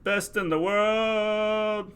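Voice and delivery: high, long-held announcer call; imitating toddler son's announcing. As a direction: draw it out high like a small boy announcing. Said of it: "he just started doing the".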